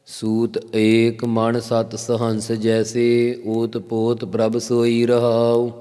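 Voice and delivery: slow, measured reverent recitation; scripture recitation. Acted. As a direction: intone the opening verse slowly. Reciting Gurbani line in katha. (ਹੌਲੀ ਸ਼ਰਧਾ ਭਰਿਆ ਪਾਠ)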